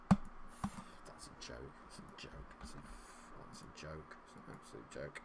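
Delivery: very quiet, breath-thin grumble; disgusted muttering. Real, not acted. Gamer to himself about the match, muttering disgustedly. Deflated fury after bad moment.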